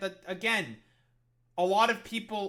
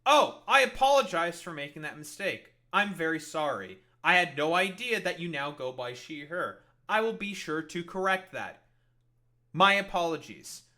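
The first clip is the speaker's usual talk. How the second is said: overly polite apology; 6 dB louder than usual. Pretend. Acting polite apologizer in bit.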